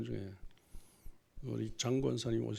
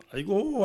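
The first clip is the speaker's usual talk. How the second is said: mourning wail; 8 semitones higher, 6 dB louder, slower than usual. Shown as a demonstration. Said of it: "아이고는 그냥 친척".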